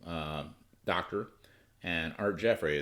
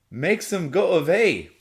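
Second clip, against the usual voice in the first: put-on girl's plea; 10 semitones higher, 9 dB louder, slower than usual. Girl pleading, voiced.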